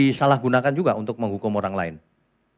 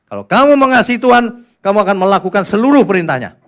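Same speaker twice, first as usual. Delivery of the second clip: preaching shout; 8 semitones higher, 10 dB louder than usual. Real, not acted. Preacher driving home main point.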